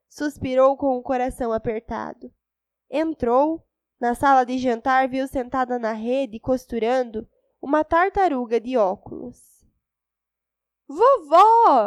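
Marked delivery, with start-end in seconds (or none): 10.9-11.9 loud, high, despairing shout, "vovó" stretched long. The girl sees a turtle sitting in the hammock and cries out, shouting in despair. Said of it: "Gritou a menina com desespero".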